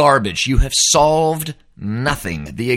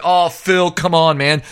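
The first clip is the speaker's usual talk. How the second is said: higher-pitched mock protest from a fan; protesting listener; 6 semitones higher, 3 dB louder, slower than usual. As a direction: imitate a fan pleading, pitched up. Voices listeners' objection to him.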